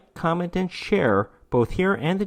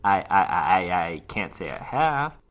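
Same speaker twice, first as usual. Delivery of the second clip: stuttering; 8 semitones lower than usual. A narrator's reading. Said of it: "Gregory stuttered".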